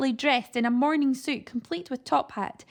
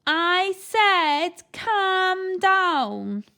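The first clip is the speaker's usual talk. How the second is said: posh shout; 8 semitones higher, 7 dB louder, much slower than usual. A narrator's reading. Man shouts at deaf granny.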